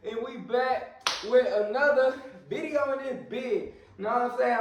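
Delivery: winded, out of breath; breathing hard, out of breath. Real, not acted. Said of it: "I'm a little out of breath".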